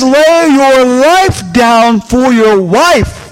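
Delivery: each word drawn out slowly; slow emphasis. Shown as a demonstration. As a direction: lay out the verse word by word. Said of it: "So when it says".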